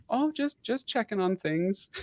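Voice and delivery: high, sing-song innocent mother; caught mom. Retold or imitated. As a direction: play the mom pretending nothing's up. Mom caught searching room.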